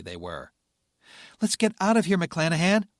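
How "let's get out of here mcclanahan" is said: panicked shout. Acted. Pilot panicking under fire.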